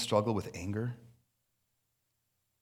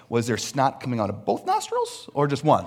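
laughing; 4 dB louder than usual. Real, not acted. Joking about crying amounts.

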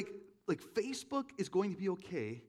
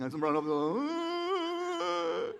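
much higher, louder, slow, half laughing half crying; laughing through tears; 5 dB louder, much slower than usual. Real, not acted. Preacher retelling crying on the hill, laugh-crying. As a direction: let the laugh and the tears mix. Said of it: "bawling as I'm running up this hill".

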